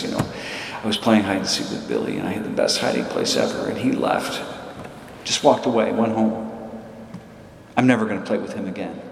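put-on hinted tearful child, partly breathy and uneven; a light touch of a sobbing kid; crying. Johnny telling his dad through tears, mildly tearful. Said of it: "they're crying".

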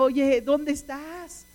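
mock call, long drawn-out; calling out for mother. Boy left alone in the desert calls his mother, drawn-out mock shout. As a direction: stretch it out like calling for a missing mother. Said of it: "empieza a gritarle a su mamá".

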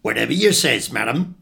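mildly resigned tradesman; a touch of weary compliance. Acted. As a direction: give in to a fussy customer. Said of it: "says the fishmonger resignedly".

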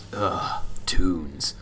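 breathy whispered grumble of disgust. Retold or imitated. Imitating Eddie Valiant's whispered disgust at toons. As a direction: hiss it out like a weary drunk detective.

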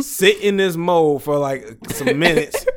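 can't keep from cracking up as you explain; laughing while talking. Real, not acted. Laughing while describing the mold.

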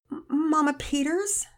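halting. Acted. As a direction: get the name out haltingly. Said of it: "Penelope said haltingly".

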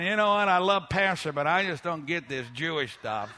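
low, subdued grumble; old wineskin grumbler. Acted. Preacher mimicking a doubter in the pews, quiet grumbling. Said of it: "an old wineskin sitting here going".

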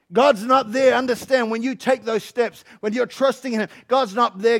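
loud, emphatic sermon delivery; energetic preaching. Real, not acted. Preacher urging people to take a step, energetic preaching. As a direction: preach it with drive.

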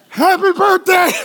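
high-pitched, hammed-up greeting; comically bright shout of congratulations; mock birthday cheer. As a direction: call it out with fake party joy. Mock greeting to seven-year-old newborn.

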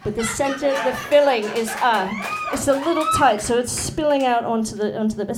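put-on British accent, baking-show judge; improvised British baking critique. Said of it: "like, a British accent".

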